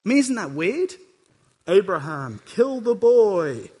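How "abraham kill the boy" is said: voice of God. Acted. God's command voiced by preacher.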